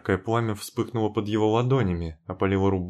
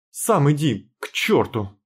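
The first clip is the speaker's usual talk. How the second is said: angry retort; 5 semitones higher, 4 dB louder, slower than usual. Acted. Heroine snaps back at Timofey.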